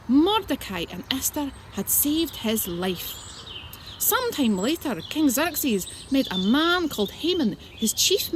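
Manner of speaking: slow, storytelling read-aloud; story narration. Acted. Reading the story of Esther to children at a slow storytelling pace. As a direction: tell it slowly for the children.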